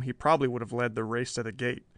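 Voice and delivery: ordinary delivery, nothing marked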